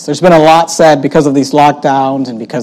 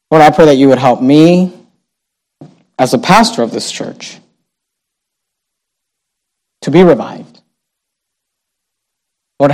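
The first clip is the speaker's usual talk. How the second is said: closing prayer; 3 semitones lower than usual. Acted. Pastor leads closing prayer.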